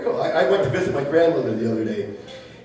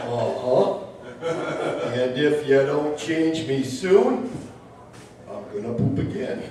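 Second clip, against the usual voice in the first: John Wayne; slower than usual. Retold or imitated. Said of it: "I started doing John Wayne".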